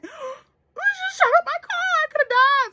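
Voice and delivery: telling mom about the shooting, crying; crying panic. Retold or imitated. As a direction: sob it out in shock.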